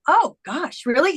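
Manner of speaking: high-pitched feigned surprise; playing dumb. Woman to psychic, playing dumb. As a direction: act like it is news to you. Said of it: "you kinda play dumb".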